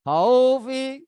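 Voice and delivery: khaufi said quickly with a final i; short khaufi. Shown as a demonstration. Teacher giving the written word before its long reading. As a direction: say khaufi briskly. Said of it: "Dibaca khauf".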